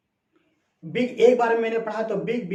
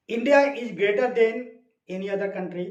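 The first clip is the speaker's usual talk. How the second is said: slow model sentence; much slower than usual. Retold or imitated. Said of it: "वो इसे comparative में कह रहा है".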